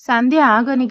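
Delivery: calling out her name loudly to stop her. Acted. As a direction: shout after her as she walks away. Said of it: "గట్టిగా అరిచాడు". (గట్టిగా పిలుపు)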